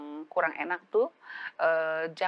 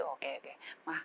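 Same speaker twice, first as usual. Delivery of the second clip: soft gentle opening; 8 dB quieter than usual. Retold or imitated. Child gently opening the talk.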